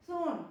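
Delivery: "सून" said in one beat, cut off by a pause; "सून" in a single push, stopping at once; one-beat word. Shown as a demonstration. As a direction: say "सून" as one syllable and stop. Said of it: "एकदम से रुक गई".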